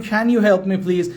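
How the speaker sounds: slow model with "Can"; slow can version. Shown as a demonstration. Teacher contrasting the "Can" version with "could". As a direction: try the "Can" version slowly.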